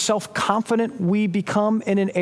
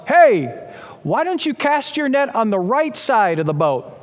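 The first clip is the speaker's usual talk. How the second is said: raised voice, calling out to a boat; yelling from afar; 3 semitones higher, 3 dB louder than usual. Retold or imitated. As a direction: holler it like someone on the beach. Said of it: "someone from the beach yells".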